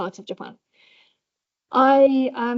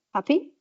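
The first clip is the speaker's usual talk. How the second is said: one-word question, HAPPY rising at the end; questioning rise; 3 semitones higher than usual. Shown as a demonstration. Lecturer demonstrating flexible pitch, HAPPY rising as a question. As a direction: turn HAPPY into a short question. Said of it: "say it as a question".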